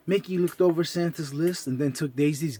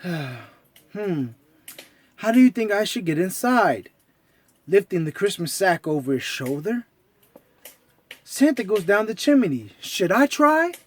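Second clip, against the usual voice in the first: unsure cartoon mouse; pondering Mickey. Mickey wonders.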